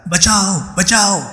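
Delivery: high, desperate cry for help; screaming for help. A narrator's reading. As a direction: shout to the passing bus. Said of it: "गला फाड़कर चिल्लाने लगा".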